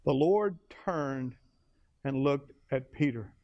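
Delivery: slow, low retelling; the preacher repeating the line slowly. Shown as a demonstration. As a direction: say it slowly and heavily.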